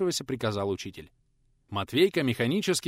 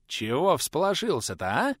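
baring teeth; 5 semitones higher than usual. A narrator's reading. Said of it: "оскалился в ответ трудовик".

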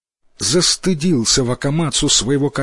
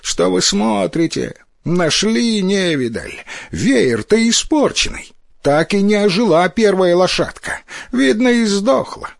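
put-on envious boy's high-pitched jeer; jeering shout; 7 semitones higher than usual. A narrator's reading. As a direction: cry out scornfully to belittle it, pitch climbing. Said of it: "давай кричать".

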